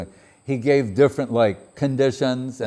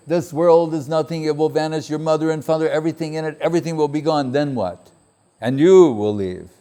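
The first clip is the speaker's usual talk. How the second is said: higher, louder preacher warning; preaching voice; 5 semitones higher, 3 dB louder, faster than usual. Retold or imitated. Preacher warning the boy that everything will be gone, emphatic. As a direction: hammer home that all will vanish.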